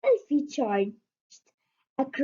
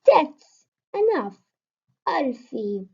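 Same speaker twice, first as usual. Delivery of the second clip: stern growl; 3 semitones higher, 6 dB louder than usual. A narrator's reading. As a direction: cut him off firmly. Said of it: "she growled".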